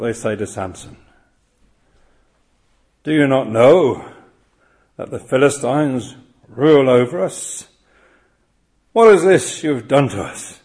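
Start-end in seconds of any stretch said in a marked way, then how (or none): 3.0-10.6 men of Judah. Acted. Quoting men of Judah rebuking Samson.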